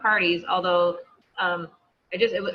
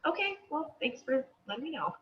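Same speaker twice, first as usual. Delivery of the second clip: breezy mock acceptance; 5 semitones higher, 7 dB quieter than usual. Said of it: "So if they say no".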